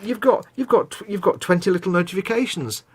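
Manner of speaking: high chirpy app voice; sing-song mock of Instagram. Mocking the app's voice.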